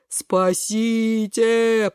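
very drawn-out, mock-desperate wail; cry for help. Кабачок flopping into the river, long wailing plea. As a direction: stretch out a long plea for rescue.

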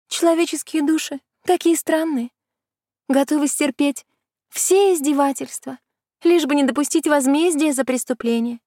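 высокий снисходительный голос колдуньи; рассуждай свысока, словно ведьма; колдунья, поучающе. Acted. (колдунья поучает Кисану, высоко и снисходительно)

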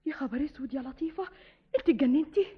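loud, alarmed question; shocked. Acted. Sister shocked at plan. (صدمة واستنكار)

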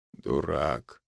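low, soft hoarse half-whisper; husky whispered agreement. A narrator's reading. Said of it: "хриплым шёпотом согласился".

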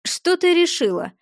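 sepulchral booming voice; dark lord. A narrator's reading. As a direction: boom it from the grave. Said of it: "прогудел рядом за могильный голос".

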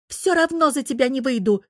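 put-on high, stubborn girlish refusal; high-pitched obstinate retort; spiteful defiance. A narrator's reading. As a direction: refuse out of pure contrariness. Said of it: "Зараза от вредности".

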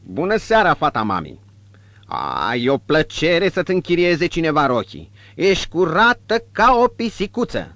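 high, loud sugary praise; fawning innkeeper. Acted. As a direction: flatter the girl shamelessly.

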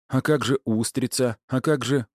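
high, urgent questioning; heated protest. A narrator's reading. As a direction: object hotly, pitch up. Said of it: "горячо отреагировал Игнат".

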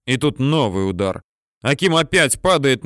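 plain reading voice

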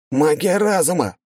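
high, slow exclamation; shouted realisation. A narrator's reading. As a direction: call out the answer. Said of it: "выкрикнул Иванов".

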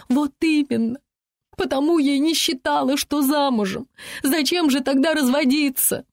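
high-pitched retort in a quarrel; arguing back. A narrator's reading. Sissy argues back in a quarrel. (запальчиво возражая, высоким голосом)

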